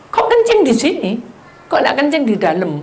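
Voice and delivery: wife asking her husband why he peed out there, incredulous; incredulous question. Retold or imitated. Wife to husband, high incredulous questioning.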